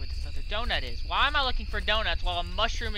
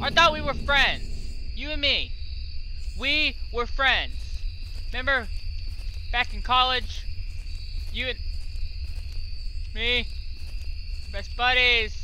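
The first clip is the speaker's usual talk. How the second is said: high whiny begging to a friend; mock pleading; 4 semitones higher than usual. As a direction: plead playfully with the monster. Pleading with chasing mushroom.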